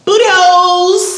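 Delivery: shouted gag. Acted.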